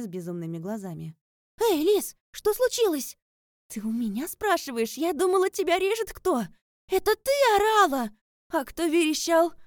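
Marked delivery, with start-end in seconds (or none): 1.6-3.2 loud high panicked call; alarmed shout. A narrator's reading. Sai bursts into the bedroom shouting in alarm. 3.7-9.5 loud high alarmed yelling; startled shouting. A narrator's reading. Lis, just woken by a scream, yells back at Sai.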